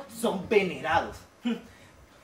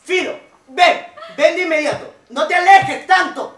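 high shouting for a dog; calling out; 10 semitones higher, 10 dB louder than usual. Acted. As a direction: call out across the park. Owner calls for lost dog.

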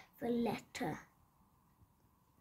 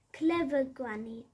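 cheering; 4 dB louder than usual. Acted. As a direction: cheer her cleverness. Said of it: "cheered Squeak".

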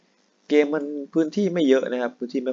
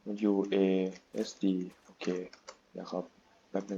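off-mic mutter; 4 semitones lower, 13 dB quieter than usual. Real, not acted.

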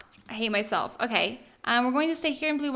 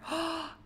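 sharp gasp; 7 semitones higher, 7 dB quieter than usual. Real, not acted. Realises she forgot formal wear.

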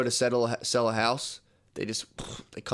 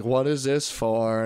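playing dumb; much slower than usual. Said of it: "pretending to be retarded".

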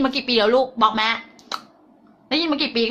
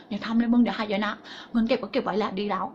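soft, lower cautioning voice; little inner voice; 3 semitones lower, 7 dB quieter than usual. Acted. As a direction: quietly warn yourself off the risk. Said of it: "เสียงเล็กๆที่เขามาพูดกับเรา". (เสียงเล็กๆ ในหัว เตือนเบาๆ)

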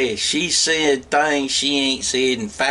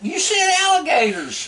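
teasing; 12 semitones higher than usual. Real, not acted. Teasing wife's slip of tongue.

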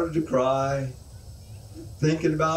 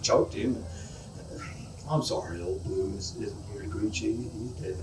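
lower, softer, mournful neighbor's voice; a touch of solemn country neighbor; somber neighbor; 5 semitones lower, 3 dB quieter than usual. Acted. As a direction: break the news gently and gravely. Neighbor breaks the bad news.

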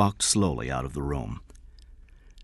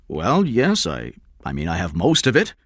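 nervous stalling; 4 dB louder than usual. Acted. King stalls the kidnapper.

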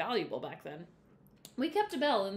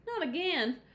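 exclaiming; 8 semitones higher, 3 dB louder, slower than usual. A narrator's reading. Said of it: "Mama exclaimed".

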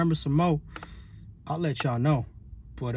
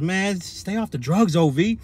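put-on baby mama scolding; 4 semitones higher, slower than usual. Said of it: "She goes".

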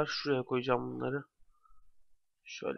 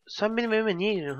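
1 indignant; 7 semitones higher than usual. Real, not acted. Mob enters his house.

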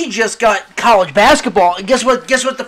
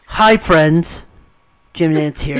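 golf commentator; 7 semitones lower, slower than usual. Retold or imitated. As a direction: hush it like a golf broadcast. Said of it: "do golf voice".

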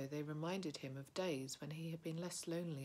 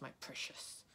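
Gollum whisper; 5 dB quieter than usual. A narrator's reading.

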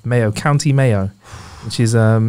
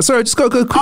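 mock hurried whisper; 9 semitones higher than usual. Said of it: "you're like".

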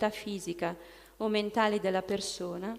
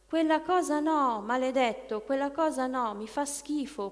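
higher, louder cry of revulsion; demon screaming; 4 semitones higher, 3 dB louder than usual. Retold or imitated. The demon screams at the hidden relic in disgust. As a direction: shriek it out, recoiling from the relic. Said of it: "il demonio attraverso la persona urlò".

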